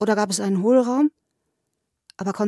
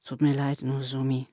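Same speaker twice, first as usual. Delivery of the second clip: low, soft apology; hushed, low-pitched contrition; subdued apology; 6 semitones lower, 6 dB quieter than usual. A narrator's reading. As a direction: say sorry quietly, drained. Sobered man apologises after silence.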